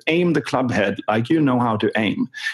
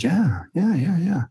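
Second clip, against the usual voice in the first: higher-pitched, eager imitation of a golfer; excited agreement; 6 semitones higher than usual. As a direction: act out a player getting keen. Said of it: "So he is all excited".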